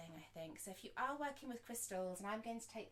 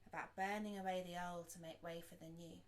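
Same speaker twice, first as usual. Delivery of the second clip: unhurried reflective guidance, long silences between thoughts; guided meditation; 3 dB quieter than usual. Acted. Teacher guides listeners to reflect on intentions, guided meditation. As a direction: pose each thought gently and leave room after it.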